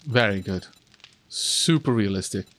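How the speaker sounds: dry, deadpan sarcasm; mock praise with a straight face; sarcastic. Real, not acted. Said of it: "The sarcasm there was quite amusing".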